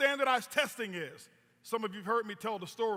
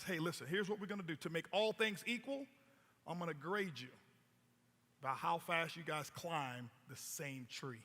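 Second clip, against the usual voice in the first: low, soft and slowing professor announcing the rules; a quiet professor telling the class how they'll be graded; 6 semitones lower, 10 dB quieter than usual. Acted. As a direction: lay down the rule like a calm, condescending professor. Professor addressing the animals.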